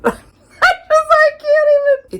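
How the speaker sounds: can't stop laughing at the absurd book; giggling fit while trying to talk; laughing helplessly. Real, not acted. Overwhelmed by the book's weirdness.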